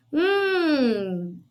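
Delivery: long drawn-out thinking hum; mock-pensive "hmm"; pondering hum. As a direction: hum as if mulling over a puzzle. Teacher playfully ponders the quiz question.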